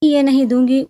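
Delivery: put-on a girl's high, loud cry of no; child's loud refusal. Girl shouts refusal at Usama over her iPod. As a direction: clutch it and cry out no.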